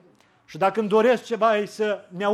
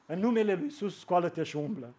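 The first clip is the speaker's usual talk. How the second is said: softer, lower, almost a sigh; the preacher lamenting the power the church lacks today; soft and longing; 3 semitones lower, 5 dB quieter than usual. Acted. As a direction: say it as a quiet, missing prayer. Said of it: "Lipsește puterea să spunem".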